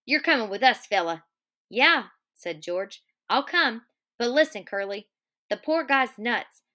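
steady read-aloud of the novel; story narration. A narrator's reading. Teacher reading Of Mice and Men aloud to class, steady narration.

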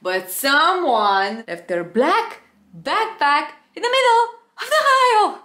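rising into a high, loud, fast wail; high frantic wail of an apology; panicked apology. Retold or imitated. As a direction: blurt it out near tears. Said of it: "Sir, I'm so, so sorry".

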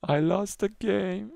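slow, high fake whimper; put-on tearful wail; mock crying. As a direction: whimper the words, then burst into pretend sobs. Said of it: "you know I'm joking".

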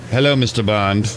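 lightly voiced Bond villain. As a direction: purr it like a movie villain. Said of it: "James Bond".

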